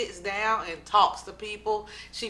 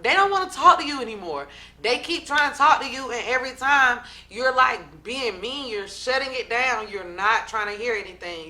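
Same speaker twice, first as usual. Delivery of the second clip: raised, heated retelling of Jackie's snap; imitating a snap; 2 semitones higher, 4 dB louder than usual. Jackie scolding O G, mildly heated voicing. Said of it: "Jackie is snapping".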